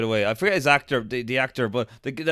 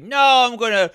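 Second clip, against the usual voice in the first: retold defiant refusal; 8 semitones higher, 6 dB louder, faster than usual. Acts out woman's defiant refusal.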